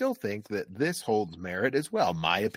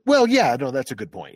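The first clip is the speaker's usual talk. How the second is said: instant backtrack; 6 dB louder than usual. Retold or imitated. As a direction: cave in at once with a bright yes. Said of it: "I'm like".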